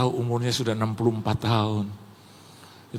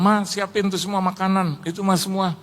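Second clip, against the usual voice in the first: retold calling out; 6 semitones higher than usual. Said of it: "Terus saya bilang".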